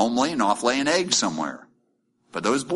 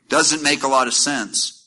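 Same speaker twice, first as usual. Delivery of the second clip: mock complaint; 2 semitones higher than usual. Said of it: "mock complaining believer".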